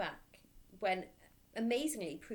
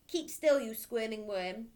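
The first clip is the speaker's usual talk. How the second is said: much louder, slow barked order; loud snap; 3 semitones higher, 7 dB louder than usual. Acted. Headmistress ordering the dangling boy, loud bark.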